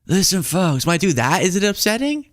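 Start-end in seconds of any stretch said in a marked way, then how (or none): 0.0-0.8 lightly voiced folksy politician, a bit higher; a hint of an elder statesman addressing folks; Biden impression. Host asking if impressions upset people, light Biden impression. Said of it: "can I not do Biden?".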